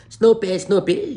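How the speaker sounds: loud high call of the dog's name. Retold or imitated. Friend calling dog again.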